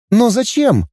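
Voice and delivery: put-on puzzled girlish question; girl Dana. A narrator's reading. Dana asks. (девичий голос, недоумённо)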